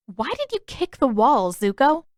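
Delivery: confronting question. Acted. Katara confronts Zuko.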